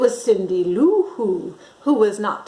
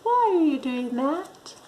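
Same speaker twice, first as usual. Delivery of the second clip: put-on child's question; 6 semitones higher, 4 dB quieter than usual. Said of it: "She's saying".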